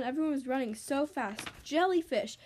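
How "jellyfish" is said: cried out. Acted. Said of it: "cried Izzy".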